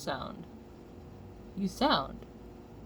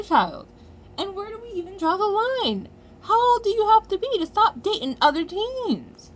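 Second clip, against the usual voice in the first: pitched high and louder, exasperated; heated rant; 8 semitones higher, 5 dB louder than usual. Real, not acted. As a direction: push up into an exasperated climax.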